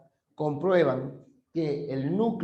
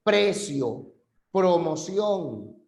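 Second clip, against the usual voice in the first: slow example word; much slower than usual. Shown as a demonstration. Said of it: "lo encontramos en".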